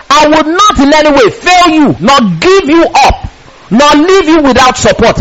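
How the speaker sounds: high, insistent preacher's reading; emphatic promise. Retold or imitated. Preacher reads God's promise to the congregation, emphatic. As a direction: drive God's promise home.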